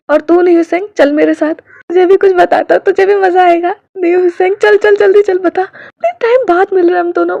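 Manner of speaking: high, loud, hurried excitement; eager excitement. A narrator's reading. Best friend eagerly dragging his pal away, high and loud. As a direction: grab your buddy, can't wait to tell.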